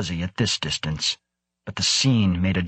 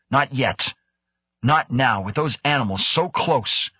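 higher, urgent refusal; shot back; 5 semitones higher than usual. A narrator's reading. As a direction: push back firmly. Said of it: "she shot back".

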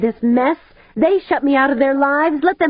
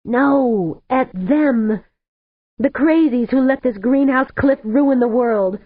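bitter tearful outburst; 8 semitones higher than usual. A narrator's reading. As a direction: spit it out through tears. Weeping Cardenas vents her bitterness.

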